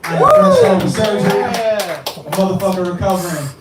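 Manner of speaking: loud, high shout to the crowd; crowd hype. Real, not acted. Rapper greeting the crowd after surgery, loud high hype shout. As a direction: pump the room up.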